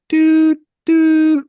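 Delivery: high excited shout of dude; excited yelling. Retold or imitated. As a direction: yell dude in a giddy high voice. Player celebrating running downfield.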